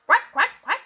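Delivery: loud, high quacking; duck quacks. Acted. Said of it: "called Ducky Lucky".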